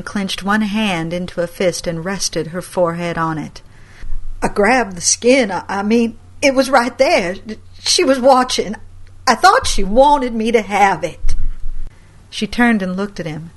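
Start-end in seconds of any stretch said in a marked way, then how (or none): 4.4-11.3 higher, louder stammering pleas; anxious excuses. Acted. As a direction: justify himself, frightened. Grandson excuses.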